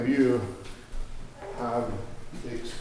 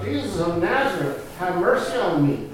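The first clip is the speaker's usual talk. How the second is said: impulsive plea; 4 semitones higher, 5 dB louder than usual. Acted. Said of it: "I just couldn't help myself".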